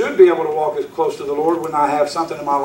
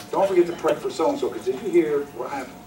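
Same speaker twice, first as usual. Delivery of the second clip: hushed mock gossip, much softer; a hammed-up church gossip sharing a secret; gossip's hush; 3 semitones lower, 8 dB quieter, faster than usual. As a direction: lean in and whisper-gossip like a busybody.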